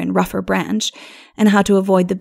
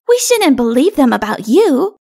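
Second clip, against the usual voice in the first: put-on high, loud, earnest child voice; little child assuring; 6 semitones higher, 6 dB louder than usual. A narrator's reading. Little one standing up for king, earnest child. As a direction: insist like a loyal little child.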